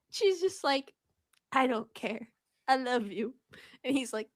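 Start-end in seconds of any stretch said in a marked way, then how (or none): 1.5-3.3 softer, hushed declaration of love; a half-hearted swoon, quietly; mock tender. Bella telling Edward she loves him, mock soft.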